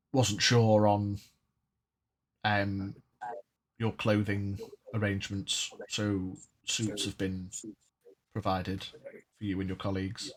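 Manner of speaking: reading a letter in a lightly put-on posh English accent. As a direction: read it like a refined English gent. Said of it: "saying it in a posh accent".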